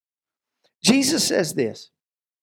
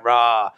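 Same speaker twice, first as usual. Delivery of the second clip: mock bear roar; 8 semitones lower than usual. Mom as bear coming out.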